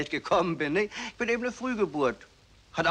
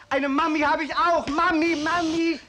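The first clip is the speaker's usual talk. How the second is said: put-on high, calling mami like a small child; childlike calling; 7 semitones higher than usual. Son calls out for his mother in a high childlike voice. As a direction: call for mami like a toddler.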